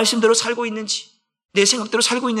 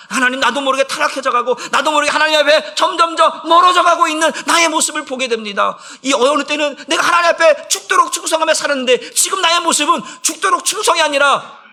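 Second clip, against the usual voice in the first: high, shouted pleading sermon; impassioned preaching; 7 semitones higher, 6 dB louder than usual. Real, not acted. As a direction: cry out as if before God. Preacher at full force. (부르짖듯 격정적인 설교)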